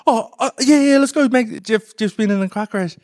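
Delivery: mock-upset friend rushing off; imitating tearful Mags. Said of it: "Mag's like".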